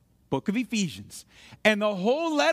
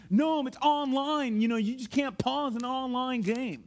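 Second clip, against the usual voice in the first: put-on kid protesting. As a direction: lightly imitate a kid stretching out the objection. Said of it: "Because my kids all the time".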